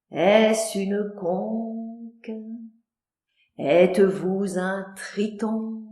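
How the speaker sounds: slow, soft dreamy tone; lyrical. Acted. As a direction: poetic reverie.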